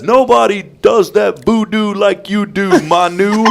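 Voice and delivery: high, slow, stretched play-by-play call; sportscaster call. Retold or imitated. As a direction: belt it out like a big sports call. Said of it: "he had the greatest call".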